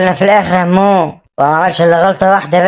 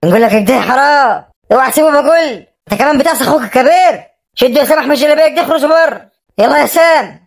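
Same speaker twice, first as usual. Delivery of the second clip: scolding; 6 semitones higher than usual. Acted. Uncle scolds the son.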